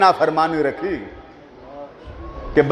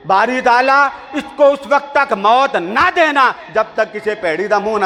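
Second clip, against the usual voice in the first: angry mother cursing; 4 semitones higher than usual. Retold or imitated. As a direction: hurl the curse upward. Mother's curse, hands raised. (غصے میں ماں کی بد دعا)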